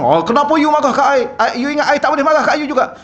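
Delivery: high, loud, fast mock retort from the wife; mock angry wife. Wife mocking her husband's anger, a high indignant retort. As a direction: snap back like an offended wife, hammed up.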